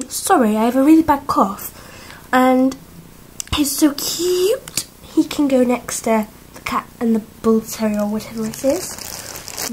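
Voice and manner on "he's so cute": whisper. Real, not acted. Cooing over toy pet.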